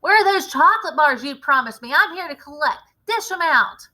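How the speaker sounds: impatient brat yelling to be paid; greedy boy. Acted. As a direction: bang on the door for your prize. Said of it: "cried the boy's voice".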